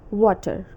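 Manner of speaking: "water" with a plain final r, Indian English; Indian-accent water. Shown as a demonstration. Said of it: "in Indian accent, we just pronounce it as".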